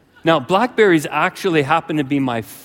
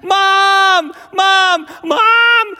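very high, loud, wailing scream; screaming for Mom; 7 dB louder, much slower than usual. Acted. Boy on bike calls his mom, screaming in panic. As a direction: scream like a terrified child calling for rescue. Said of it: "I start screaming all the way home".

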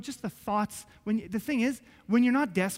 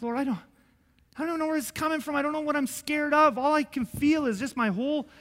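panicked prayer; 4 semitones higher than usual. Retold or imitated. Retelling his panicked prayer.

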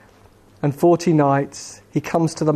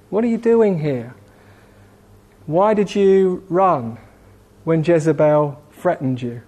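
kindly, lilting questions with long pauses; kindness. Acted. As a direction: gently draw a friend out without accusing. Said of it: "Let's hear kindness rather than critical".

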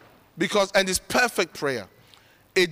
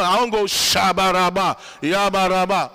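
mock tongues babble; 3 dB louder than usual. Shown as a demonstration. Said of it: "I'll just be in my".

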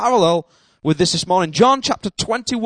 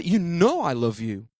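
understated retold reply; 5 semitones lower, 6 dB quieter than usual. Peter answering Jesus' question, understated and quiet. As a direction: lower and softer, tucked away.

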